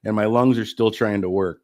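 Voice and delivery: winded, short of breath; struggling for air between words. Real, not acted. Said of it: "I'm already winded".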